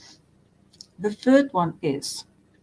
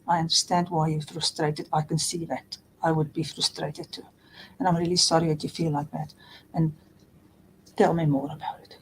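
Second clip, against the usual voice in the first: understanding; 2 semitones lower, 4 dB quieter than usual. Retold or imitated. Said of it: "They can just say".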